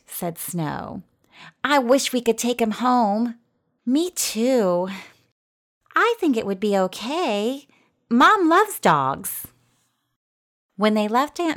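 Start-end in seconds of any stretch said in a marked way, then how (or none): 1.6-9.5 lightly voiced girl, pitched up; a hint of an eager child; hopeful young girl. A narrator's reading. Sisters wish to take the dog home, hopeful. Girls plead for keeping the dog.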